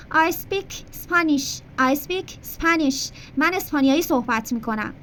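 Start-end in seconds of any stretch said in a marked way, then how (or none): 0.1-1.6 slow, clear teacher demo; slow model sentence. Shown as a demonstration. Teacher showing a student an example, slow. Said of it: "مثلاً بگو". 1.8-3.1 drawn out, very slow "I speak Spanish"; very slow model. Shown as a demonstration. Teacher repeating the example for a student, very slow. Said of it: "مثلاً بگو".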